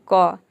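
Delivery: क as one lone "kuh" sound; QUE as "k". Shown as a demonstration. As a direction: sound out the ending QUE simply as क. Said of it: "एक letter में ही pronounce करते हैं". (तीनों अक्षरों की एक ध्वनि "क")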